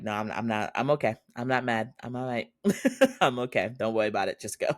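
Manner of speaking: mild mock "I'm fine" brush-off; a light impression of herself deflecting; imitating deflecting. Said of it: "Tonam does the same thing I do".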